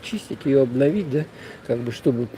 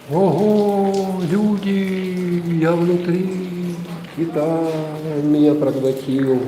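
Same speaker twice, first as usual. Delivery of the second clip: echo; 3 semitones higher, much slower than usual. Real, not acted. Inside the whale, echoing.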